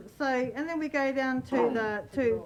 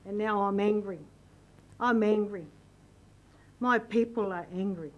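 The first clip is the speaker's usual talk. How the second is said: voicing real anger, a bit louder; 3 dB louder than usual. Real, not acted. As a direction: let the anger come through, stated firmly. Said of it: "And, and you can hear it".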